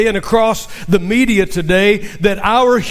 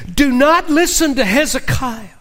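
bold boast; 3 semitones higher than usual. Acted. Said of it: "they're as bold".

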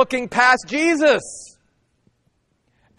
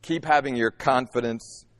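soft reassurance; 8 semitones lower, 6 dB quieter than usual. Acted. Jesus's comforting words quoted.

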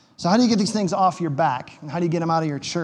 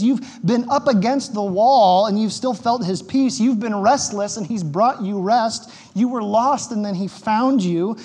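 gentle pleading; 2 semitones higher than usual. Retold or imitated. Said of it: "Peter leans in and he goes".

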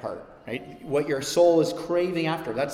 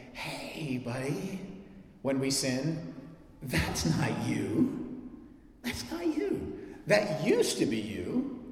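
arm round the shoulder, gentle; tender reassurance. Retold or imitated. Preacher voicing God gently comforting a sinner. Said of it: "God putting his arm around us".

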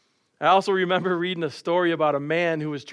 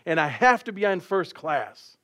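mock angry passenger; 3 semitones higher than usual. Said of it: "angry passenger".

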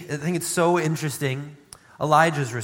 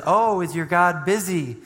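mocking; faster than usual. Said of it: "kinda mocking them".

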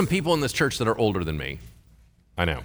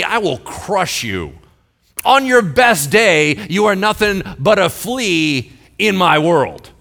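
poetic insult; 6 semitones higher, 6 dB louder than usual. Retold or imitated. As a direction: talk down to him like a big bully, dragging out the threats. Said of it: "in a very poetic, insulting way".

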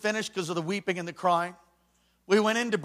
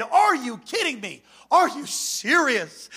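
higher, stretched-out disbelief; incredulous protest; 4 semitones higher, slower than usual. Retold or imitated. Student protesting to staff, incredulous. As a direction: talk back in mock outrage.

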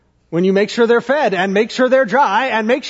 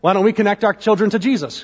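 sarcastic. Retold or imitated. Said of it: "you might be saying to yourself".

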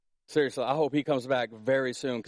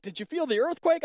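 high-pitched mock-excited question; imitated excitement; 11 semitones higher than usual. Preacher imitating Facebook posters after a quake, high and excited. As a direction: mimic everyone buzzing, voice lifted high.

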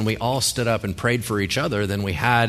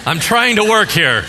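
higher, louder mock pastor, laughing; mock stern pastor; 7 semitones higher, 4 dB louder, slower than usual. Pastor hushing the sick person, mock stern and laughing. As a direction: shush them, half-laughing. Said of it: "Nothing. Quiet".

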